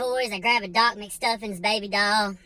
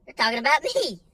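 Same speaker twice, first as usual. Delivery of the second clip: panicked mutter; 6 semitones higher than usual. Retold or imitated. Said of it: "and I'm like".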